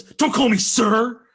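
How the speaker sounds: mock the punk snapping back; a hint of a tough kid's threat; retold angry snap. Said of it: "he whips around and goes".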